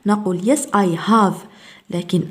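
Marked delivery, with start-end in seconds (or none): 0.4-1.4 "have" with a full open A, slowly; strong HAVE. Shown as a demonstration. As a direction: open the vowel wide on "have" in a short answer. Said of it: "تكون قوية". (نطق "have" قوية بصوت مفتوح)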